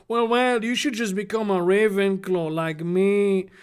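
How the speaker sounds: put-on blustering caricature Mexican accent; mock Mexican accent. Draco urging Harry to become Ravenclaw, mock Mexican accent. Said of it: "now he's Mexican again".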